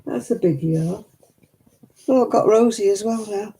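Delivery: high, sing-song cooing at the dog; pet talk. Acted. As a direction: coo sweetly to your pet like a baby. Cooing to her pets.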